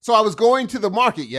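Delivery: statement, then "yeah?" tacked on as a question; questioning tag YEAH. Shown as a demonstration. Demonstrating yeah as a question mark, questioning tag. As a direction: end on a short questioning "yeah?". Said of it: "Or a question mark".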